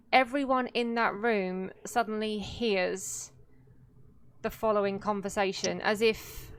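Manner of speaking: storyteller pacing with deliberate pauses; game master narration. A narrator's reading. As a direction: narrate an eerie vision to the table. Game master setting the scene.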